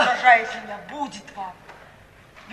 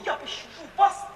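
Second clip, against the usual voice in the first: ordinary talk, nothing marked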